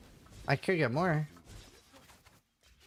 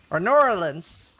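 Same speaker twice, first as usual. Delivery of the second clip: slow, louder lightly put-on Southern drawl; mock Southern accent; 5 dB louder, slower than usual. Streamer joking to chat with a mock Southern accent. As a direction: lean into a New Orleans twang. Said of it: "I was Texan this whole time".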